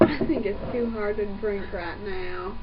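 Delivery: talking through a hot mouthful; loose dentures. Real, not acted. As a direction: mouth full of hot drink. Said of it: "I lost my teeth in that one".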